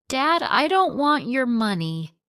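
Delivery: high, loud crying plea; tearful plea. A narrator's reading. Crying daughter pleading with her father. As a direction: beg him through tears.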